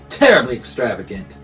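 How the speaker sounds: a little loud. Acted. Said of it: "Bear's voice was a little loud".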